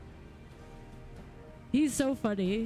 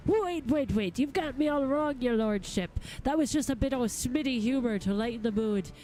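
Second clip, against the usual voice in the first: lightly voiced smith hastily placating his client; backpedalling cranky smith. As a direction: backpedal with rough-spoken deference. Reads a grumpy smith's dialogue.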